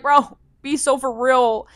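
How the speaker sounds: slow, drawn-out "bro, be so for real"; exasperated disbelief. Retold or imitated. To the hotel saying it's full, slow exasperated disbelief. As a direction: stretch it out, fed-up and incredulous.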